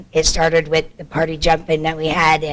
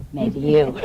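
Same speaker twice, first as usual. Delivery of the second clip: laughing; 3 semitones higher than usual. Real, not acted. Laughing jab at council.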